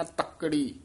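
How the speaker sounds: ਤੱਕੜੀ with a doubled, pressed ਕ; tight ਤੱਕੜੀ. Shown as a demonstration. Teacher correcting reciter, ਤੱਕੜੀ with doubled ਕ. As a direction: press the ਕੱ in ਤੱਕੜੀ, not ਤਕੜੀ. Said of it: "ਇਹ ਕਸ ਕੇ ਉਚਾਰਨ ਕਰਨਾ".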